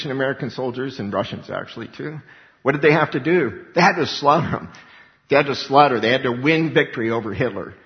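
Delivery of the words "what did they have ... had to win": loud, hammered declaration; forceful preaching. Real, not acted. Preacher insisting the soldiers had to fight, loud. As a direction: pound the word had home.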